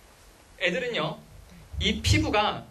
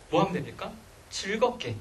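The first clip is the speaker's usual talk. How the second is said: usual speaking voice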